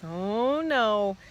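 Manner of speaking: drawn-out, understated cry of dismay; mild mock scream. A narrator's reading. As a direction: stretch out a pretend wail. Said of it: "Sheila screamed".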